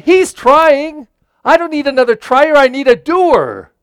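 furious football coach tirade; angry coach. Retold or imitated. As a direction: scold the team for trying instead of doing. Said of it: "He said".

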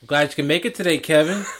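lightly imitated needling coworker; mock sarcastic. Old coworker to late Kevin, imitated sarcasm. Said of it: "basically what it is is sarcastic".

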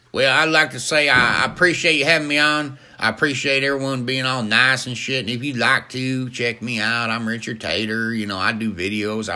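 starts loud, settles into folksy plugging; hearty comic guest voice; good old boy guest. Acted. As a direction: give a hearty, rambling sign-off in character. Richard character signs off, plugging himself.

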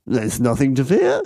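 high, swooping English gentleman voice; hammed-up Englishman, pitch climbing with confidence; middle-aged Englishman. Stout Englishman reassures passengers she's unsinkable, high mock English voice. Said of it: "says a middle-aged Englishman".

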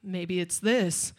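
passive aggressive. Retold or imitated. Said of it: "passive aggressive".

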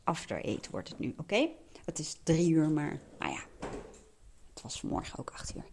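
talking with chocolate in mouth; chewing an After Eight. Real, not acted. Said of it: "dat ik niet erg ga smakken".

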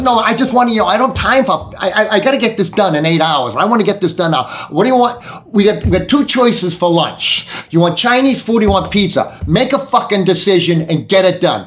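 mock impatient boss snapping orders; impatient demand. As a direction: hurry them along, out of patience. Impatient boss demanding lunch choice.

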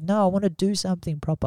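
high, quick, soft French-accent imitation. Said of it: "obviously with a fucking French accent".

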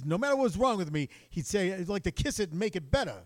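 a hint of Rodney's whiny comic delivery; Rodney Dangerfield impression. Teller doing Dangerfield's line for friend, light impression. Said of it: "Rodney Dangerfield's joke".

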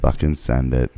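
low, hyped bro voice; frat bro. Pretend. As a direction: drop low and hype it. Mocking bro catchphrase.

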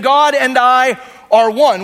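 each word weighed slowly; slow emphatic. Acted. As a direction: lay it down slow and firm. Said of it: "this is Jesus saying".

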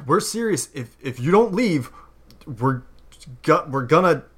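a nervous elf, voice jumping high; a frightened elf threatens the hero with a knitting needle; shaky threat. Acted. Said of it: "shakily sticks it out towards you".

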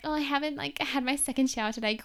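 mocking prissy girl. Mocking girls who call themselves grubby, prissy voice. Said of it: "one of those girls who are like".

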